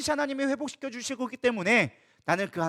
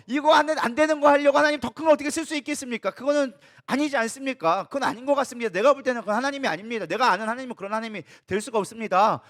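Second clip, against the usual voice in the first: protesting outcry. Acted. Habakkuk protesting to God.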